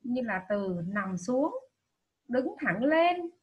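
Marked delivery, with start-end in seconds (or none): 2.3-3.3 đứng thẳng lên slow, higher, pressed hard; emphasised words. Shown as a demonstration. Teacher showing pupils which words to stress, slow and emphatic. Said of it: "cần nhấn giọng".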